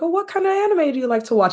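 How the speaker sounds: put-on high, chirpy kid asking eagerly; quick, high-pitched mock innocent question; imitated anime kid. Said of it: "the clip of the kid that, like, goes up to the girl".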